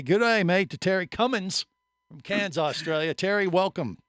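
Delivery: put-on a cheesy Aussie greeting in Australian accent; bad Australian accent. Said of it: "I apologize for my crappy Australian accent".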